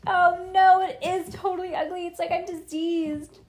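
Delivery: high, loud horrified shriek. A narrator's reading. Nancy on learning of her wart, shrieking. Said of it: "Nancy shrieked".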